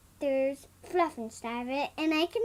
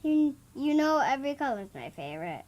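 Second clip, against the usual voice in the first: says it again, louder and clearer; 2 semitones lower, faster than usual. Real, not acted. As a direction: repeats it so the audience can hear. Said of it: "You need to talk a little bit louder".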